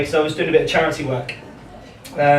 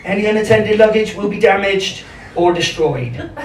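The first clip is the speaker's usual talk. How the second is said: imitated Bristolian tannoy announcement; Bristol announcer accent; 4 semitones higher than usual. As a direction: read a station notice in a broad Bristol accent. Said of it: "the best tunnel announcement I've ever heard. You can only hear this in Bristol".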